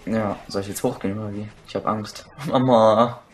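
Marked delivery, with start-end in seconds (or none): 1.7-3.2 mock fear. Mock fear, calls mama.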